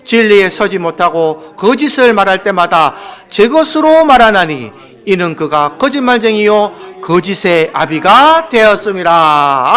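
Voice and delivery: slow solemn Bible reading over music; scripture reading. Acted. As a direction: intone the verse slowly like a preacher. (음악 위에 천천히 장엄하게 성경 낭독)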